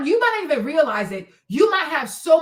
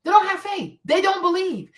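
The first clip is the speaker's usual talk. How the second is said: usual speaking voice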